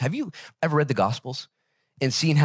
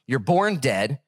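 usual speaking voice

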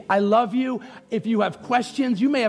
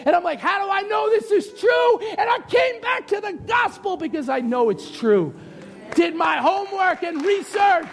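high, fervent testimony; impassioned preaching; 8 semitones higher than usual. Real, not acted. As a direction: preach it with rising conviction.

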